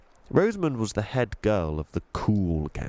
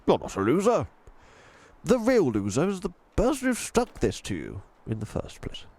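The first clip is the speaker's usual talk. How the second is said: put-on firm but kind old tramp voice; kindly old tramp; 8 semitones higher than usual. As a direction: reassure the girl as the old tramp. Mister Stink comforts Chloe.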